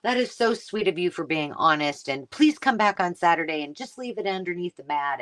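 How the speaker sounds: a hint of a sugary grandma voice; sweet wife. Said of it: "she's like".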